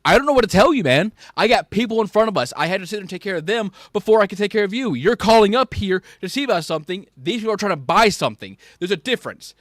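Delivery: mild retold shouting, quick and fed up; heated reply. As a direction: push back hard on an angry caller. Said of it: "And I'm over here being like".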